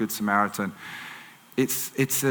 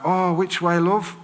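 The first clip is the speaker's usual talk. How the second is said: imitated lost lady; 5 semitones higher than usual. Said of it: "she wasn't from England, that's just my accent".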